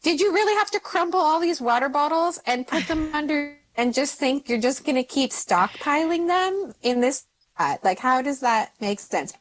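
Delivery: high, incredulous scolding; mock-scold the teenagers, pitch way up; mother scolding teens over crumpled water bottles, incredulous; exasperated. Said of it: "I'm like".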